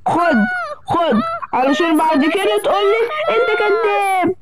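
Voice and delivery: a shout mixed with crying; villain yell. Acted. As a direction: hit him and yell. Villain strikes the child.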